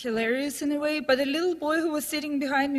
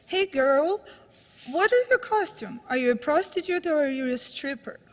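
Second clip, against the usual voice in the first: lightly voiced pushy cop, pitch up on the question; a hint of a mocking policeman; leering cop; 2 semitones higher than usual. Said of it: "a guy dressed as a policeman came to her".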